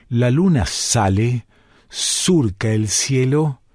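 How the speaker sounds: gentle poetic narration, unhurried pauses; poetic reading. Acted. Reads a poetic text aloud.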